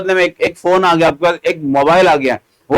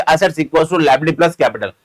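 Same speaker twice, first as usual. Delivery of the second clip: slow recitation; much slower than usual. Shown as a demonstration. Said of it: "slow first take of the formula".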